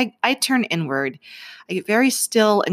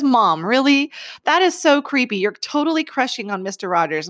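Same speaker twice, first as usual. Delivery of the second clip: mock disbelief; 6 semitones higher than usual. Son teasing mom about picture.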